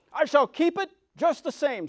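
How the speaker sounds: lightly gloating witch, high and loud; mocking witch. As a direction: taunt the girl as the witch. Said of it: "laughing at her".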